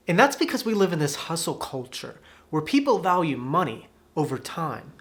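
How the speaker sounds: usual speaking voice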